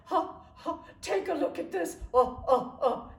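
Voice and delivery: high, loud, laughing-crying gush; Italian friend bursts in showing off her news, gushing; excited friend. Retold or imitated. She went.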